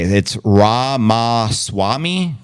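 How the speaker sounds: "Ramaswamy" said very slowly, syllable by syllable: Rah-mah-swah-mee; correct pronunciation. Shown as a demonstration. Streamer tries the name chat corrected, slow careful pronunciation. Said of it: "How do you supposed to pronounce Ramsawani?".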